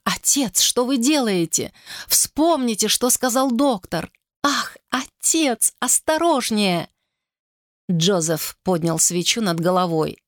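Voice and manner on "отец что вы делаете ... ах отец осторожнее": frightened pleading. Acted. Daughter pleading with violent father.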